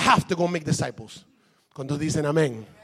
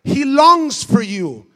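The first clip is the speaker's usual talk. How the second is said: God's tender voice; 7 semitones higher, 8 dB louder, much slower than usual. Acted. Voicing God's longing to listener.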